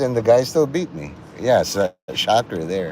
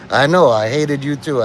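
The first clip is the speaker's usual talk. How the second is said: mock choked-up; 4 semitones higher, 4 dB louder than usual. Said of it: "almost crying".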